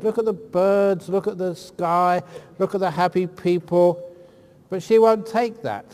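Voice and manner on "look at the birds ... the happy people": positive coaxing. Retold or imitated. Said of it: "I try and give her a positive attitude".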